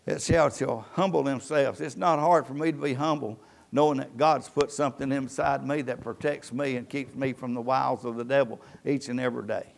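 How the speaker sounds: low, soft and sincere; hushed humility. Real, not acted. Pastor confiding his humility to the congregation, low and hushed. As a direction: drop low and soft, humbly testifying. Humble personal testimony in sermon.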